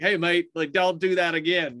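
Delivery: put-on lightly done Australian accent for a kangaroo; a quick, half-hearted Australian mate voice. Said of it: "I was trying to sound Australian".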